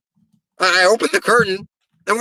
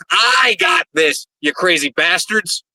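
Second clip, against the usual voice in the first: drawn-out promo boast; slower than usual. Acted. Closing boast to his opponents.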